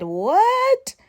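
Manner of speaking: very high, loud disbelieving what; shocked what. Retold or imitated. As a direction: shoot up in sheer disbelief. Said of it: "I said".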